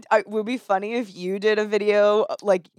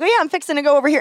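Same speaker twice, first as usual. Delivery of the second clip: put-on accidental Texas accent; 8 semitones higher, 3 dB louder, much faster than usual. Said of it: "I accidentally said".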